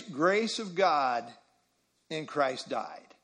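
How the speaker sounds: "grace of God" and "Christ died" said slowly, set apart by a pause; slow, deliberate weight on GRACE and DIED; emphasis on the phrase. Shown as a demonstration. Teacher linking two phrases of the verse, slow emphasis. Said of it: "that's the emphasis here".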